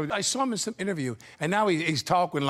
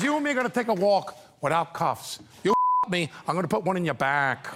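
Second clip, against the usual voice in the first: put-on high-pitched young Pacino, with a laugh breaking in; a barely managed high Pacino voice; Pacino impression; 2 semitones higher than usual. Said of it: "he does it so high-pitched".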